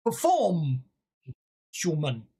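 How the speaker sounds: a hint of a haughty goblin king; lightly voiced goblin king, sizing up a performer. Goblin king grudgingly lets the bard perform, lightly voiced. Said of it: "says King Fatmouth".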